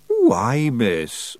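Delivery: a wee Scots pixie begging to keep a pet; Feagle voice. Acted. Feagle voice held.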